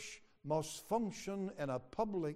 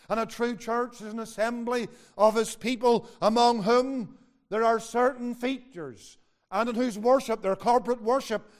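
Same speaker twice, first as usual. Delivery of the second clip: raised, emphatic sermon delivery; forceful preaching; 5 semitones higher, 8 dB louder than usual. Real, not acted. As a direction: drive it home to the congregation.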